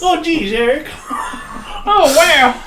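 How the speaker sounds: high, loud shocked reaction; surprised. Real, not acted. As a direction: gasp it out in shock.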